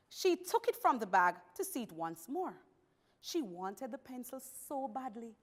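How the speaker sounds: expressive storybook reading; story narration. Acted. Teacher reading a pencil story to the class, expressive narration. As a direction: read it out for a class, with lifted phrases and clear pauses.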